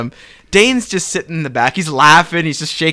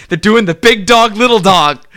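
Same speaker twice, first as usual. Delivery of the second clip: animated, higher-pitched delight; gleeful, raised voice; excited; 4 semitones higher, 4 dB louder than usual. Real, not acted. Fan sharing a favorite new tag team, excited.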